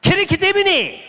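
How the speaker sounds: high, loud, drawn-out ringing cry; thunderous pastor imitation. Preacher imitates the late pastor's voice, thunderous pastor imitation. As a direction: imitate a pastor's bone-splitting booming voice. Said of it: "목소리 흉내 내볼까요".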